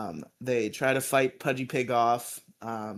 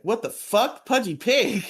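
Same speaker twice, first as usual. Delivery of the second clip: shocked Zach; 9 semitones higher, 5 dB louder than usual. Retold or imitated. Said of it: "he's like".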